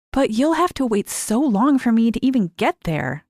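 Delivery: fretting about the plan; worried young girl. A narrator's reading. Mary questioning Lise's plan, worried.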